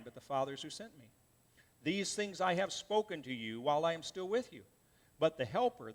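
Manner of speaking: measured, solemn Bible reading; scripture reading. Acted. Pastor reading Jesus' words to the congregation, solemn reading. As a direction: read the words of Jesus with weight. Preacher reads John 14 aloud.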